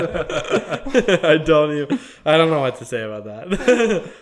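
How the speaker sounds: laughing. Real, not acted. Cracking up at the joke.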